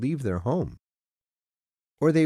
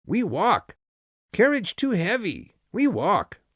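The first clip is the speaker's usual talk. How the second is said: high, loud, broken excited cries; excited shouting; 11 semitones higher, 5 dB louder than usual. Acted. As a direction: blurt it out too excited to speak clearly.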